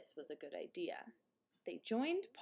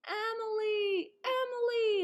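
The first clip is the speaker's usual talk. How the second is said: calling out; 14 semitones higher, 7 dB louder than usual. A narrator's reading. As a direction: call the name across the field. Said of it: "they cried".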